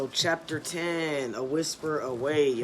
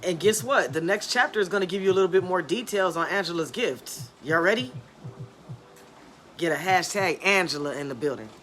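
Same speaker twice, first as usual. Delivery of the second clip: hyped up; 3 semitones higher, 4 dB louder than usual. Real, not acted. Hyping up the live audience.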